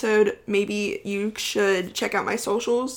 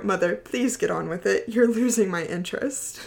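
Tom Hiddleston voice. Pretend. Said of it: "Tom Hiddleston".

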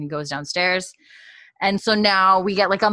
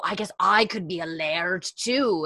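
put-on stupid Scottish accent. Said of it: "trying to do a stupid accent".

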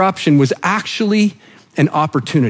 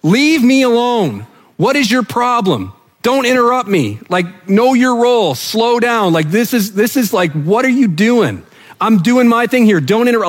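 exasperated Jesus; 4 semitones higher than usual. Pretend. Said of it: "the Jesus nice way of saying".

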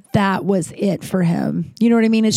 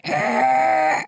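low growl; 5 semitones lower than usual. Retold or imitated. Froze, then growls at stranger.

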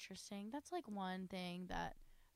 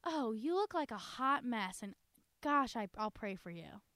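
put-on older church lady judging a hot mess; snide church lady; 3 semitones higher, 5 dB louder than usual. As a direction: sweetly insult them, then offer prayers. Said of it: "That's more like".

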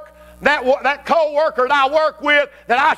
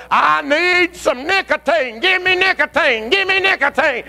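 craving flesh; 5 semitones higher than usual. Acted. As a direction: beg like a nicotine addict. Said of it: "The flesh going".

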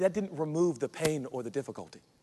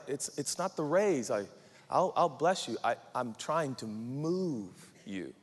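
softer, patient answer after the complaint; patient reassurance; 3 semitones lower, 4 dB quieter than usual. Acted. God answers the complaining worker, patiently reassuring. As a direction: reassure gently, slowing at the end. Voices God's patient reply.

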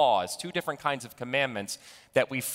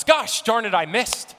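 loud, higher golfer's yell; frustrated shout; 7 semitones higher, 6 dB louder than usual. Acted. Golfer shouts at his ball into the lake, loud. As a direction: bark it at the ball. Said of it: "The congregant shouts".

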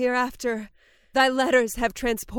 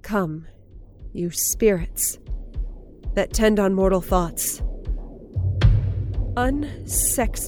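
dark invocation; 3 semitones higher than usual. Acted. Lady Macbeth invokes spirits.

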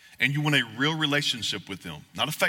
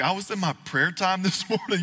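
laughing mock quote; 5 semitones higher than usual. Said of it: "they'll talk about".

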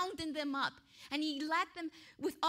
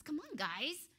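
coaxing king; 4 semitones higher, faster than usual. Acted. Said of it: "he was giving them a chance".

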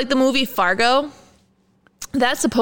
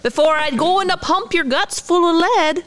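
higher, hammed-up Minnesota accent; 7 semitones higher than usual. Finishing the gangster threat in a Minnesota accent. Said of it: "movie quote ... Minnesota accent".

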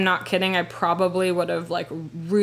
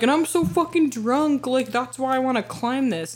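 hint of a higher-pitched drunken whine; mock drunk; 5 semitones higher than usual. Storyteller imagining her drunk excuse, mock drunk. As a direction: lightly put on a drunk's excuse.

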